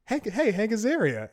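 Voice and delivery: high, loud shout across the street; excited call out. Retold or imitated. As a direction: call after him so he turns around. Calling after a celebrity on the street.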